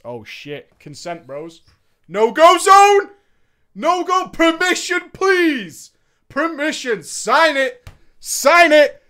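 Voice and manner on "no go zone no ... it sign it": high, loud panicked yelling; frantic shouting. Real, not acted. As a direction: shout the warning in alarm. Alarmed shouting about consent.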